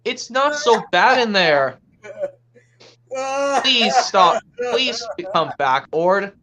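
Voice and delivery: drawn-out, mildly pleading character voice; pleading cartoon friend. Calling to crying Ord, acted pleading. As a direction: coax a crying friend to come back.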